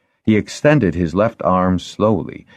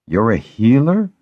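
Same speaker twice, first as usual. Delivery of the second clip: higher, startled rising question; dismayed; 6 semitones higher, 4 dB louder than usual. A narrator's reading. Jackson learns the young woman is a healer, dismayed. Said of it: "Jackson was dismayed".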